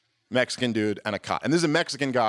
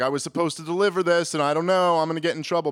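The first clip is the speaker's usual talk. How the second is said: higher-pitched mock exasperation, lightly acted; mildly infuriated complaint; 6 semitones higher, faster than usual. Delivery man complains about the rejected cot, mildly infuriated. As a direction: imitate a man protesting, voice a little higher. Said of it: "infuriated thing where he's like".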